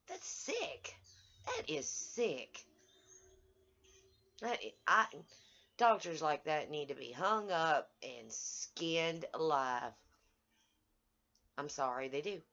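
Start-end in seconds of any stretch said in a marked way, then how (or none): 0.1-9.9 real outrage. Real, not acted. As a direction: spit it out in disgust. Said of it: "I'm angry".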